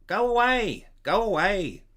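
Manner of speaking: high, loud, panicked cries; fearful shout. Acted. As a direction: yell it out in terror. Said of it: "he shouts in a voice full of fear".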